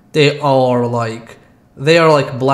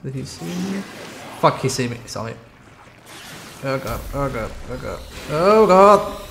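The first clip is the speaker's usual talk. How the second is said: terrified gibbering. Real, not acted. Chased by monster in game.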